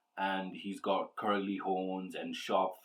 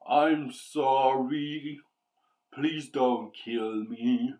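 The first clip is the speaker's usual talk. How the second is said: slow, higher, louder begging demon voice; pleading demon; 4 semitones higher, 5 dB louder, slower than usual. Acted. Captured demon begs the heroes not to kill it, slow pleading. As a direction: beg for your life, drawn out. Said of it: "The demon's pleading words".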